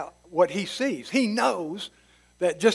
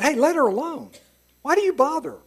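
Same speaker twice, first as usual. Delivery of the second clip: higher, raised voice telling them to stop; Jesus rebuking the scolding disciples, raised and firm; firm rebuke; 8 semitones higher, faster than usual. Retold or imitated.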